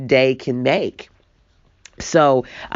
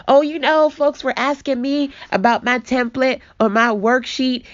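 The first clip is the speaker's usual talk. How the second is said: mock breezy excuse; 10 semitones higher than usual. Mocking her own casual excuse.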